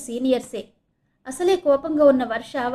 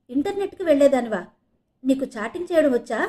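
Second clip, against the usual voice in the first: eager, a little louder questions; curious; 3 semitones higher, 5 dB louder than usual. Acted. Roommate asks Varsha about chatting, mildly eager. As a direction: lean in, keen to know. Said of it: "ఆసక్తిగా వర్ష వైపు చూస్తూ".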